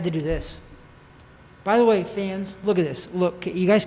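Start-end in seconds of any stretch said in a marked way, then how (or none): 1.6-3.8 speaking through a face mask; muffled voice behind a mask. Real, not acted. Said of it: "it's muffled".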